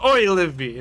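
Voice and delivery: imitating mom shouting the dog's name; calling the dog. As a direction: mom yelling at her pug. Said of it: "she'll go".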